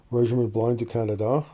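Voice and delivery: clumsy, self-conscious French accent. Real, not acted. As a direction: attempt the French name in a bad French accent. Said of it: "Sorry about my horrible French accent".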